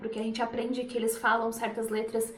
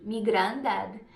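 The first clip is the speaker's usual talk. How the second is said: me for my, said mee, Scouse; Liverpool me; 4 semitones lower, much slower than usual. Shown as a demonstration. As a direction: Liverpool accent on me granddad. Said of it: "eles falam me".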